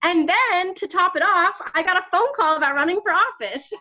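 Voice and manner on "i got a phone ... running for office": usual speaking voice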